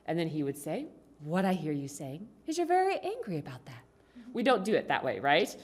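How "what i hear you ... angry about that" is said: too nice. Acted. Husband mirroring his angry wife, too nicely. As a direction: play it unrealistically sweet and polite. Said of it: "We don't say it nicely like that".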